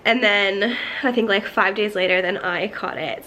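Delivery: congested, under-the-weather voice; sick voice. Real, not acted. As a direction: talk like you're getting over a cold. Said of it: "So I sound kind of funny 'cause I'm still".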